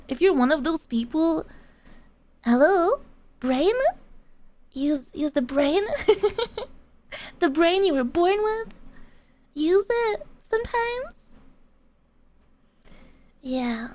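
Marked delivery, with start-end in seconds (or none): 2.4-11.3 mocking question intonation, rising at the end; sarcastic. Real, not acted. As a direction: talk down to someone being dense, half laughing. Mocking viewers who miss the obvious.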